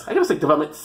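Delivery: "development" with a long hissed S added at the end; final S exaggerated. Shown as a demonstration. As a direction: hang on a plural S after "development". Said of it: "There's an S at the end".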